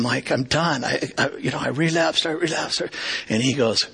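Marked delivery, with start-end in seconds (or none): 0.3-2.8 retold tearful confession. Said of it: "and I'm just bawling".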